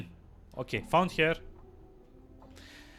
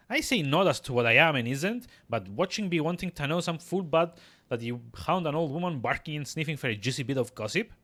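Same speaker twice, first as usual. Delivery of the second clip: folksy crone in dialect; cagey old midwife; 3 semitones higher than usual. Acted. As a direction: dodge the question like a wary crone.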